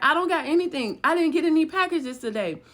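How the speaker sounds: protesting innocence. Retold or imitated. Woman questioned about their stuff by intruders, protesting innocence. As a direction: insist as the questioned woman, voice lifted high. She denies again under interrogation.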